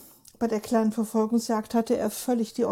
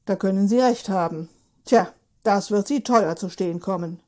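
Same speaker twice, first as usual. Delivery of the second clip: dry policeman; 2 semitones lower, 3 dB louder than usual. Acted.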